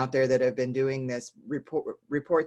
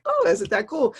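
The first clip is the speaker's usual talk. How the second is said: higher, louder, delighted exclamation; 9 semitones higher, 6 dB louder than usual. Retold or imitated. Reacting to the parent's gratitude story, higher and louder. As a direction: gush over the story. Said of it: "And I was like".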